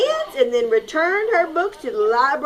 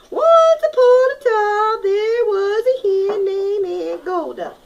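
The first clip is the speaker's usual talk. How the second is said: hen voice; 9 semitones higher, 5 dB louder than usual. Acted. Hen types her story.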